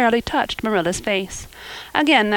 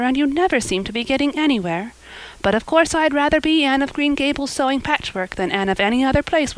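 lightly voiced girl, a little higher; chatty girl; 5 semitones higher than usual. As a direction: prattle earnestly while doing a chore. Anne chats while sewing.

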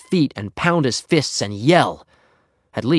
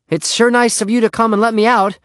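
loud, high ingratiating call; 11 semitones higher, 6 dB louder than usual. A narrator's reading. Henry thanks Beezus through the window, calling out. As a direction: call out politely to your rescuer.

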